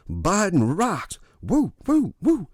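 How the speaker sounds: slow high mock cheering. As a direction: whoop like a fake fan.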